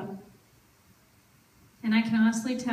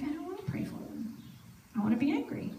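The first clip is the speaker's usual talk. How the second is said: put-on higher and much softer childish protest; sulky refusal; 5 semitones higher, 8 dB quieter, faster than usual. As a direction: pout like a sulking child.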